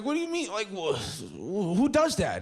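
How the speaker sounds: high, whiny sobbed questions; sobbing at a friend who won't care; mock sobbing. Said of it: "it made me cry more".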